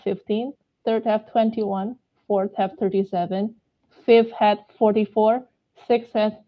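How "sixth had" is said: out of breath mid-count; catching breath midword. Real, not acted. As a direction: gasp for air between numbers. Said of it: "Sorry, lost my breath there".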